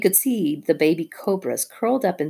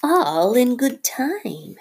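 very slow, higher snake voice; unhurried cobra; 8 semitones higher, much slower than usual. Acted. Nagina answering Rikki without moving her eyes, slow. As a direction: drawl it lazily.

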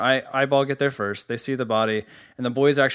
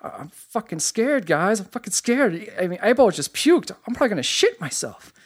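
higher, whiny mock fear; mock scared Vern; 8 semitones higher than usual. Vern telling the boys he is scared, higher mock whine. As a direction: play it like a scared kid. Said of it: "Vern is like".

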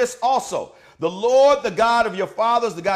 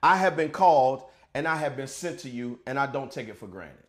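loving pastoral. Real, not acted. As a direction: speak tenderly to your flock. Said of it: "I wanna take a loving pastoral moment".

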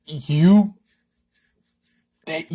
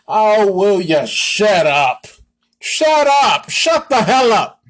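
angry outburst; 3 semitones higher, 4 dB louder, slower than usual. Real, not acted. Vlogger yelling at the quarterback to shut up, angry. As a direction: tell him to shut up, fed up.

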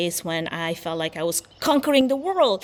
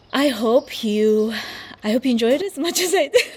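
out of breath; 4 semitones higher, 3 dB louder than usual. Real, not acted. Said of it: "While I'm catching my breath".

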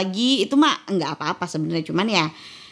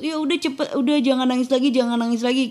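mock urging, higher pitched; hurried hushing; 5 semitones higher than usual. People telling a crying adult to stop, hurried hushing. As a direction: imitate someone rushing a crier to stop.

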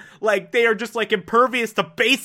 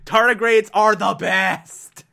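gushing excitement; 3 semitones higher, 4 dB louder than usual. Real, not acted. Host declaring love for tardigrades, gushing excitement. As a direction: declare it slowly like a devoted fan. Gushing over favourite animal.

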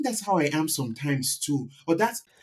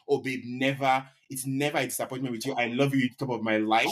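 mock sweet reassurance. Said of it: "I should be like".

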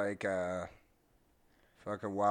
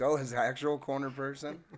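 retold surprise, higher and louder; mock-astonished realisation, pitched up; surprised reaction; 6 semitones higher, 6 dB louder than usual. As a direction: act out a sudden surprised realisation. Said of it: "I'm like".

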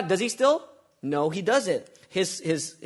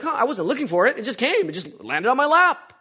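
tempted inner voice; 8 semitones higher, 7 dB louder than usual. Retold or imitated. Voicing a tempted listener.

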